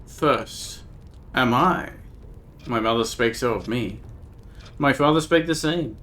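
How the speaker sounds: a hint of a grieving old woman, archaic; lightly voiced old woman. Old Nika telling the stranger of her dead daughter, lightly grave.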